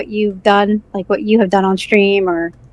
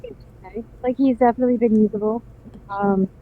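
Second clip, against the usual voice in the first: muffled; 7 dB quieter than usual. Real, not acted. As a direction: voice muffled as if behind a wall. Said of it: "You sound like you're all muffled".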